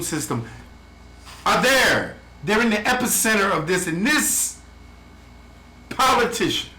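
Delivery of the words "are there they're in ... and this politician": upset and pushing through it, pitch climbing; emotional. Real, not acted. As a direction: voice rising, higher with emotion. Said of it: "Excuse me if I get a little emotional".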